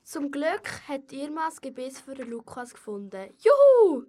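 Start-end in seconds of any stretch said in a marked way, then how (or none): 3.4-4.0 hoher, lauter Jubel; jubelnder Freudenruf. Acted. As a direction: Nina jauchzt vor Freude. Nina jubelt über gefundenes Gebiss. (hoch und laut jubeln)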